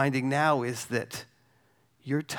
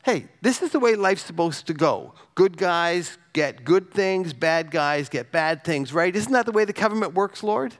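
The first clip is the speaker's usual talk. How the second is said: animated mock; 4 semitones higher, 4 dB louder than usual. Real, not acted. Mocks naive orientation view.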